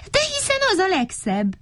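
high, delighted reply; high-pitched cheerful fondness; smiling. A narrator's reading. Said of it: "mosolygott Mikka Makka".

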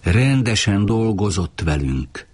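ordinary delivery, nothing marked

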